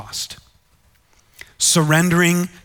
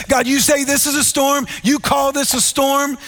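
retold yell, pitched way up; mock yell at God; 7 semitones higher than usual. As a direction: imitate a man taunting God in a storm. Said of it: "he yells at God".

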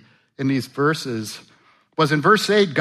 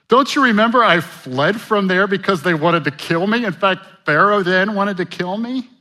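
higher and louder, panicked disbelief; Moses freaking out; 6 semitones higher, 7 dB louder than usual. Acted. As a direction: protest like a wanted man being sent back. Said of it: "Moses kind of freaks out".

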